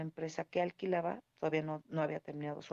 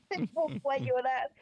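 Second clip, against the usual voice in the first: higher and louder as tears come through; words pushed out as the voice breaks; real tears rising while telling how she cried; starting to cry for real; 8 semitones higher, 4 dB louder than usual. Real, not acted. Breaks down retelling goodbye.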